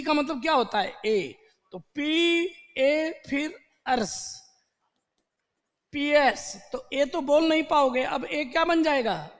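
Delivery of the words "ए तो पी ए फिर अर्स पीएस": slow spelling. Shown as a demonstration. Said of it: "अब इसको समझो".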